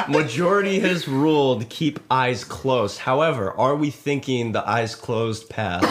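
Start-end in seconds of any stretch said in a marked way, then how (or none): 0.1-1.7 laughing while declaring. Real, not acted. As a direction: repeat the verdict laughing. Repeated decree with laughter.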